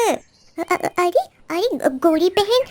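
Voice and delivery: stammering, high frightened voice; scared sparrow. Acted. Sparrow stammers in fear before the crow, high. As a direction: stutter out of fear.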